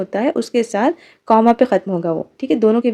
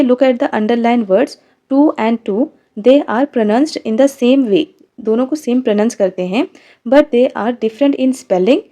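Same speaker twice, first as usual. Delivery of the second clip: slow read-aloud; much slower than usual. Shown as a demonstration. Reads book explanation to class.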